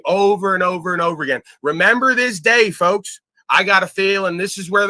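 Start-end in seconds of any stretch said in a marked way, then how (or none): 1.6-3.2 higher and louder, announcing to the crowd; loud proclamation. Real, not acted. Streamer telling his viewers to mark this moment, proclaimed. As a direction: declare it like a prophecy.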